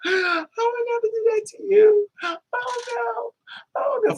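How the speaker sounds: high, tearful hammed-up wail; badly faked crying protest; mock crying denial. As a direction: fake sobbing innocence. Addict fake-crying denial.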